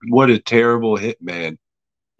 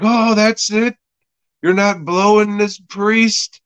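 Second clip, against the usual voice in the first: much higher, astonished questioning; incredulous relief; 10 semitones higher than usual. Acted. Husband learning his wife is innocent, high incredulous relief. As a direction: act out amazed disbelief, pitched way up.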